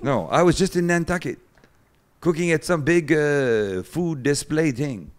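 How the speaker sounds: imitating Bernard. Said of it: "here's classic Bernard".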